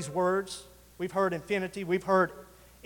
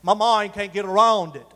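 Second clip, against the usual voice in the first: put-on light Australian accent on "My mind can't get around it", with "My" said as "mah"; 3 dB louder than usual. Preacher lightly imitating how Australians say it, Australian accent. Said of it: "uh, Australian accent".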